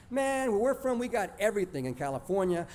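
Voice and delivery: high, insistent rattled-off boast; bragging cousin. Acted. California cousin bragging to little Texas kids, boastful. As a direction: list each thing on a high, sustained pitch. Cousin brags about home in story.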